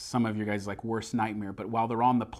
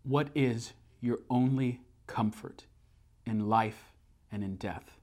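tender question; slower than usual. Retold or imitated. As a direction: ask it gently, holding her hand. Husband asks wife on falling plane.

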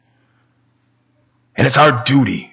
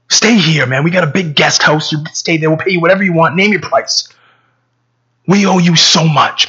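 higher, eager urging; earnest grateful pleading; 4 semitones higher than usual. Acted. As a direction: plead with him to stay, mildly worked up. Acted grateful plea to stay.

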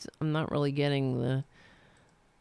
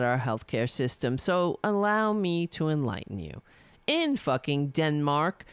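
reading a letter aloud. Acted. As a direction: read it out like a formal open letter. Reads a billionaire's letter aloud.

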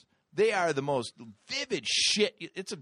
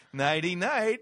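bedtime sign-off; 3 semitones higher, 5 dB louder, slower than usual. Retold or imitated. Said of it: "You'd be like".

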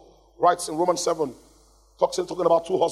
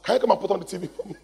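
lazy demand; 3 semitones higher, much faster than usual. Retold or imitated. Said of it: "He now calls her".

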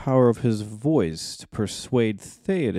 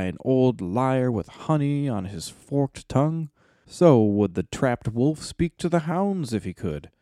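rally the king with passion; hammy stage actor; 3 semitones higher than usual. Acted. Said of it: "Eomer spoke".

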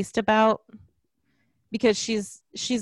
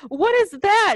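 high, loud startled question; louder, higher mock alarm; retold alarmed question; 11 semitones higher, 5 dB louder than usual. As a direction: mimic a character's alarm, pitched way up. Acted alarmed question, repeated.

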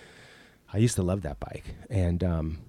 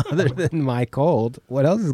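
laughing; 4 semitones higher than usual. Real, not acted. Laughs resuming his question.

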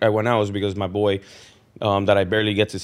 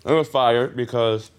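chewing while talking. Real, not acted. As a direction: mouth full of candy. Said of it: "I'm chewing and shit".

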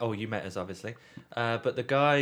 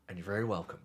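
a light hint of a nearly American accent, politely; 6 dB quieter, faster than usual. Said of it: "Like that".

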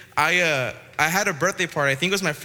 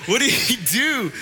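mock sad protest; 6 semitones higher, 3 dB louder than usual. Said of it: "I was so sad".

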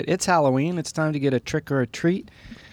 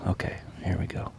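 hushed golf commentator whisper; 5 semitones lower, 9 dB quieter than usual. Acted. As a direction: whisper it so the player isn't disturbed. Golf commentator before a shot.

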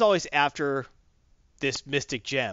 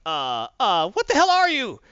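very high, loud shriek of alarm; frightened shriek; 6 semitones higher, 6 dB louder than usual. Retold or imitated. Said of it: "She starts like".

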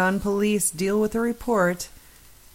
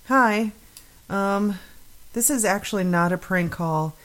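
lightly acted generic caller voice, a touch higher; acting the caller; 3 semitones higher than usual. Host reading out a non-emergency caller, mildly acted. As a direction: read it like a mildly worried caller. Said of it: "You're doing some acting there".

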